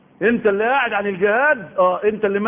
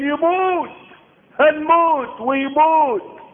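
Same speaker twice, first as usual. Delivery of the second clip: high, slow whine of a frightened man; mock the coward's panic, high and drawn out; whining coward voice; 10 semitones higher, 4 dB louder, much slower than usual. Preacher mimics men afraid of jihad, high whining. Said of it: "اللي تقول".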